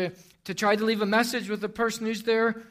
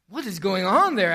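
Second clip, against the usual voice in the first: louder, alarmed demand; completely alarmed; 2 semitones higher, 6 dB louder than usual. Acted. Boss on the phone with the child, completely alarmed. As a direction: ask it in rising alarm. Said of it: "now completely alarmed".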